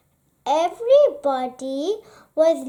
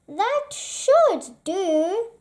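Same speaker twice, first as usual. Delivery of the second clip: grumpy badger; 4 semitones higher, slower than usual. Badger checks his larder.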